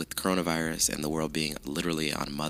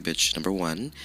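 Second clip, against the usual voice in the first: sassy dismissal. Retold or imitated. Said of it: "I would have laughed in your face and been like".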